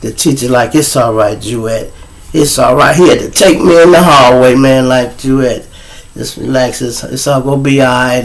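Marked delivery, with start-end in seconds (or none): 0.7-2.9 consoling. Acted. Teacher consoles the hurt student. 5.2-8.2 soothing. Acted. Teacher consoles him in hallway.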